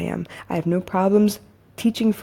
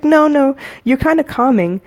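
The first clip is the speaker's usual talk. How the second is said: higher, louder quoted cousin; imitating cousin; 7 semitones higher, 5 dB louder than usual. Cousin answers worry about putting her to sleep, imitated high. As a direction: lift the voice to play cousin's protest. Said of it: "She's like".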